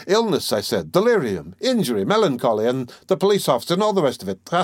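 animated, good-humored ironical lawyer with a chuckle; lightly voiced Porfiry, ironical. Examining lawyer answering his accuser, lightly ironical. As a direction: argue playfully, as if unconcerned.

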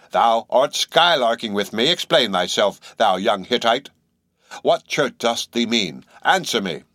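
put-on slow, stern old man's rebuke; a hint of a severe elder. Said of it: "said Bildad sternly".

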